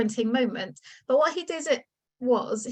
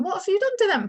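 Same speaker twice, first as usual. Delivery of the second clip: angry father; 9 semitones higher, 3 dB louder, faster than usual. Retold or imitated. Father finds smashed idols.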